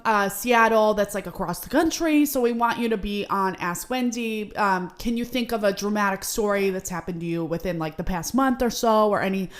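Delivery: put-on light New Jersey accent; hint of a Jersey producer. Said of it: "I'm going to attempt a Jersey accent".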